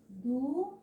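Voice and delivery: Du-as with a rising DU, a pause, then AS; syllables separated. Shown as a demonstration. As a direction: split Du-as into two separate syllables. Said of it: "Na hora de separar as sílabas". (Du-as, sílaba por sílaba)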